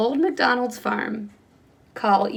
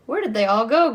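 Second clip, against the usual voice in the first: louder witch shout; 5 dB louder than usual. Acted. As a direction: call out, annoyed and loud. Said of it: "Gritch shouted to a duck".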